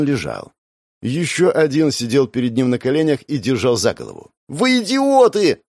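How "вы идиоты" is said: high, loud, slow furious cry; girl screaming. A narrator's reading. Sister screaming at her brother's attackers. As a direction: scream in outrage at the thugs. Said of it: "снова закричала девочка".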